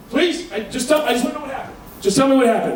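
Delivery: high-pitched, laughing plea of a husband; a husband swearing he won't hit anyone; pleading husband. Retold or imitated. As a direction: beg him to believe you, high and frantic.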